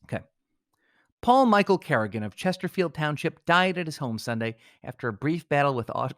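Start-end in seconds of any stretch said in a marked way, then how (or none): 1.2-6.1 measured, dignified newsreader tone; solemn obituary read. Acted. Host reads a paid obituary with gravitas, solemn and measured. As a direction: read it like a somber death notice.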